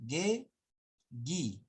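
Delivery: "ge, gi" with hard G and silent U; drawn-out hard-G syllables, ge then gi. Shown as a demonstration. Teacher contrasting spellings for the class, demonstrating. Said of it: "Acá es".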